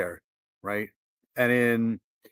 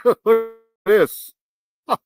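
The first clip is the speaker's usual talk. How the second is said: laughing in disbelief; 8 semitones higher, 7 dB louder than usual. Real, not acted. Watching trees swept away, laughing in disbelief. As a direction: laugh while pointing it out.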